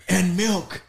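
high, laughing punchline; retold interjection. Adding to the cookie order, retold laughing. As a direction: pipe it up through a laugh. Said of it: "and then I go".

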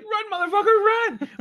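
high, loud shriek; screaming at the screen. Retold or imitated. Horror fan screaming at the victim, high and loud. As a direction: yell it as if the victim could hear. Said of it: "That's how I felt. Like".

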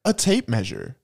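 low, deliberate list with pauses; mock-serious deep announcer; movie-trailer announcer. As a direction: read it out like an epic trailer.

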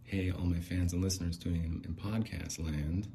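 lightly voiced podcast greeting, easy level; podcast host voice. Shown as a demonstration. Prompting Bling with the lines, understated podcast host voice. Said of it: "do the voice".

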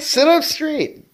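high, slow schoolteacher command; bossy order. Acted. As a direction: order her like a strict teacher. Mock bossy order to partner.

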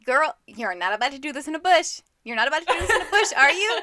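mock disbelief, rising and speeding up; incredulous scolding. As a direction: plead with her, half laughing by the end. Acted pleading with book character.

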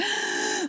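high unvoiced gasp before crying words; sharp gasp. Mom reliving her cry in the car, gasping. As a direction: catch your breath sharply. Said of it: "I actually just cried".

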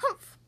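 short scornful humph; dismissive snort of a word; disdainful humph. A narrator's reading. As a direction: huff in disapproval. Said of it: "humped a voice".

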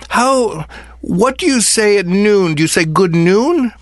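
high, eager questioning voice; asking like a curious child; excited kid rambling. Retold or imitated. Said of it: "she's like".

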